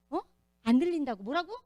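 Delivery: loud and high, pretending she can't hear; feigned deafness. Imitating the old woman loudly pretending not to hear. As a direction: play deaf, shout back like you missed it.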